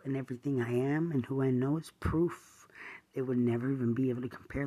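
furious, loud, hammering each denial; angry shouting. Real, not acted. Ranting at the man she accuses, furious loud shouting. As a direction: yell it straight at the person who wronged you.

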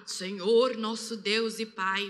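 low, slowing, solemn mock prayer; affected prayer voice. Shown as a demonstration. Woman showing how people change voice to pray, mock solemn prayer. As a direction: put on a formal praying tone, stretched out. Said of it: "mudar a, até o tom de voz".

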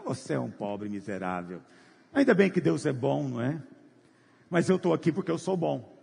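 a lightly voiced proud churchgoer, slowed; hint of a self-righteous man bragging to his neighbour; smug proud believer. Proud believer scorning the other.

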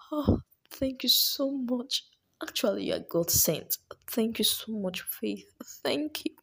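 gushing gratitude; Precious, grateful. Acted. Student thanks friend.

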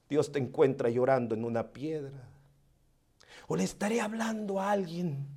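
soft, low, intimate preaching; hushed sermon. Acted. Preacher comforting the grieving listener, softly. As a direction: lean in and speak softly to the hurting.

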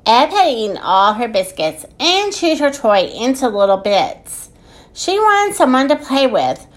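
measured picture-book narration with lilting phrases; story reading. A narrator's reading. Podcast host reading a children's book, storytelling. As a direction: read it aloud to small children.

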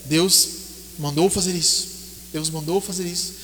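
low, soft grieving father's thought; inner thought, hushed. Acted. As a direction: murmur it to yourself, heartbroken. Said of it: "pensando no seu coração". (pai pensando baixinho, em lágrimas)

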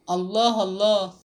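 understated narrated cry of protest; mild exclamation. A narrator's reading. Aunt protesting at a secret marriage proposal, mildly exclaiming. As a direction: exclaim it firmly without really shouting. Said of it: "فصاحت العمة".

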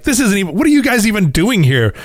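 imagined voice asking the picnicking officers why they are here; mock exasperated question. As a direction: tease the officers with mock puzzlement. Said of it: "you just have that feeling of".

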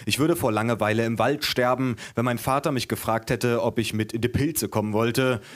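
measured, lively book-reading voice; story narration. A narrator's reading. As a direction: read your own story to an audience. Reads own book aloud.

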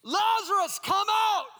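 loud cry. Acted. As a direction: call him out of the tomb with full force. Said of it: "Jesus cries out in a loud voice".

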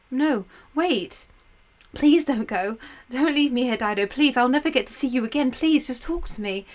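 a touch of desperate pleading; gently pleading. Acted. Aeneas begging Dido's ghost to stay, mildly pleading. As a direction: beg her not to leave.

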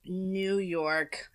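whispery topic announcement; hushed. Real, not acted. Host introducing the next accent, whispered. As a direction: say it under your breath.

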